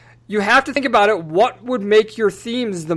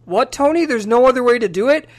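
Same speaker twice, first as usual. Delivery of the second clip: mock distressed Pepper; 3 semitones higher than usual. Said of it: "you hear Pepper, the distress in her voice".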